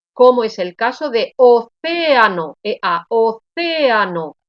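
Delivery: océano with the E and the A both full and in separate syllables; vowels kept apart. Shown as a demonstration. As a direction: spell out o-ce-A-no, the E and the A equally strong. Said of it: "la pronunciación es la misma".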